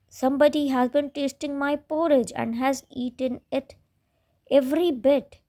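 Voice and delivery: put-on high, tearful baby bear complaining; wailing baby bear. A narrator's reading. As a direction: wail it like a small cub who lost his breakfast. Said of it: "he wailed".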